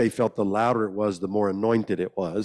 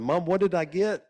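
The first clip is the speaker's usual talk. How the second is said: put-on curious boy asking mom; 9 semitones higher than usual. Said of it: "I went home and I said".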